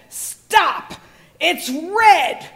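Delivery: sharp high mock shout of a traffic guard; angry crossing guard. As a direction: bark it like an angry New York crossing guard. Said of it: "blazed in anger".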